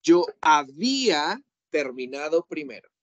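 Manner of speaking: a touch of annoyance, drawn out; student mildly complaining she finished first; mild annoyed protest.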